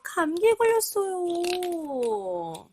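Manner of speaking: lively picture-book reading voice; reading to a toddler. Acted. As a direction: read it brightly to a small child. (아이에게 그림책 읽어주기)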